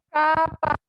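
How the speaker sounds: "caparazón" broken into held syllables with gaps. Shown as a demonstration. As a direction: stretch and separate each syllable of "caparazón". Profesor separa las sílabas del ejemplo. ("caparazón" silabeado, con pausas entre sílabas)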